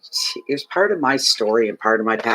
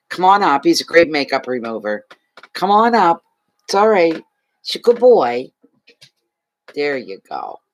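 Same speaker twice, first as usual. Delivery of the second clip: coaxing the dog. Real, not acted. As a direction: call the dog up happily.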